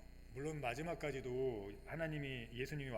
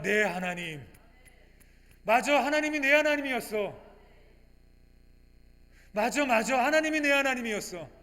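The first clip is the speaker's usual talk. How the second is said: higher, louder, fervent preaching; full-force preaching; 8 semitones higher, 11 dB louder than usual. Acted. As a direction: drive the point home to the congregation. (열정적으로 힘 있게 설교하듯)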